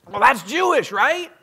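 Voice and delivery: high, loud dude drawl of disbelief; dude radio host. Retold or imitated. Radio host quizzing the author on his Jewish name, high and loud. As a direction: rock DJ grilling the guest about his name. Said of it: "quoting the host".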